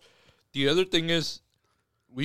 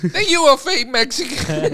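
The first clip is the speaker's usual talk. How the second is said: slow, higher, louder grandma judgment; stern abuela verdict; 8 semitones higher, 4 dB louder, slower than usual. Pretend. Grandma tells the guest he failed, slow and stern. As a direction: hand down the grandma's verdict slowly.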